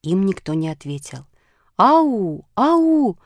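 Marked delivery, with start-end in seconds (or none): 1.8-3.2 high, loud halloo; long, raised searching calls; calling out. A narrator's reading. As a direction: call into the woods for someone lost. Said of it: "закричали они снова".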